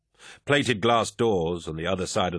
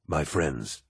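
low, smooth and commanding; commanding warrior lord; 4 semitones lower than usual. Acted. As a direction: speak like a genial, mighty lord. Narrator voices Horus.

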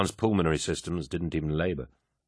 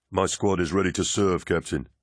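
curt; 2 semitones higher than usual. A narrator's reading. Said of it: "Rasek replied curtly".

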